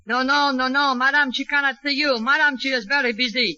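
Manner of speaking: put-on high, brisk French-accented refusal; French dialect. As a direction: play a fussy French maid with a French accent. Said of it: "I'm giving out a very fine French dialect".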